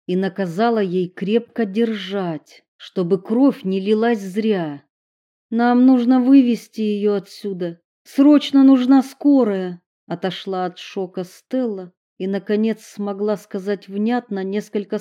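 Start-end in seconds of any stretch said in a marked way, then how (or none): 5.5-9.8 urgent. A narrator's reading. Urgent call for ambulance.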